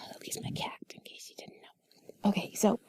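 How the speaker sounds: soft breathy whisper, close to mic; sultry narrator. Acted. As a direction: whisper it like sweet nothings. Whispered intimate chat continues.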